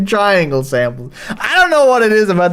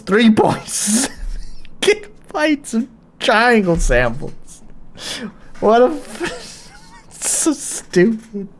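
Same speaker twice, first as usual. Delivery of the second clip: higher voice giving way to laughs; words broken up by giggles; breaking into laughter; 4 semitones higher, 3 dB quieter than usual. Real, not acted. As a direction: start to lose it laughing. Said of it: "from laughing".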